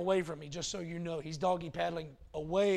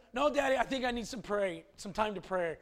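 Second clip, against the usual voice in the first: put-on child pleading; 4 semitones higher than usual. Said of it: "Breaks up".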